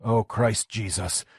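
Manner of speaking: soft, slow, hushed; Lenny hushed and stunned at the wreck; stunned whisper. A narrator's reading. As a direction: let it fall out slowly, in shock. Lenny stunned after crash.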